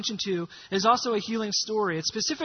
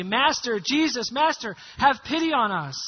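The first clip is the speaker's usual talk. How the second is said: mildly raised pleading call; crying out; 2 semitones higher, 3 dB louder than usual. Acted. Ten lepers begging Jesus for pity, crying out. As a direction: call out as a band of lepers, moderately loud. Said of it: "and they cry out".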